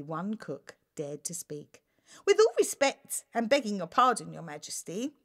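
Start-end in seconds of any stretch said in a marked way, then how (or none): 2.2-5.2 stuttering. Acted. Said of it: "she stuttered".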